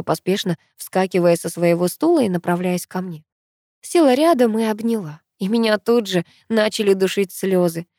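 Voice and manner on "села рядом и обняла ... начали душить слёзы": usual speaking voice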